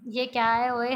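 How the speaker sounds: irritated loud question; loud retort. A narrator's reading. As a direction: snap back over the noise. Friend reacts to loud singing.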